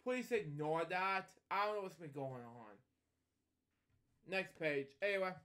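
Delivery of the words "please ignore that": imitating stepdad. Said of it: "my stepdad just trying to say".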